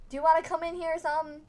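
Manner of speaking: mock haunted invitation; creepy spirit voice. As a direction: lure them in like a ghost.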